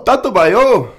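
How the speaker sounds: high, squealing anime voice; overacted anime dub. Anime voice bit continues.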